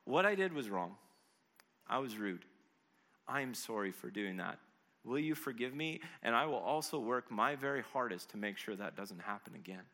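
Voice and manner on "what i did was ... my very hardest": measured, owning-up apology with pauses; earnest, unhurried plea for forgiveness; sincere apology. Acted. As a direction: own the wrong plainly, dropping lower. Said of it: "No, no, no".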